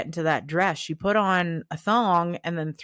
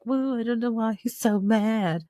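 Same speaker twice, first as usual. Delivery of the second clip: higher-pitched imitation of an oblivious friend; put-on airy puzzlement; mock clueless; 4 semitones higher than usual. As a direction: play innocent, mocking her. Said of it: "Jackie was all like".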